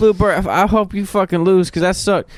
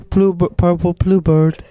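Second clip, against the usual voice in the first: slow contestant voice; slower than usual. Pretend. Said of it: "I gotta do the voice".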